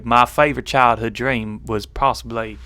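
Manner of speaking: attempted Southern American twang; lightly put-on American South; Southern American accent. Answering a viewer's question, in a Southern American accent. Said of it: "in the accent of the South of America".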